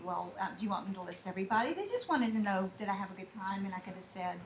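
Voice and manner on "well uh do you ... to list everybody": fast, mock-exasperated sarcasm, a bit softer; snarky teen reply. Teen to parents after a party, snarky mock retort. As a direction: roll your eyes at the question. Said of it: "do the snarky".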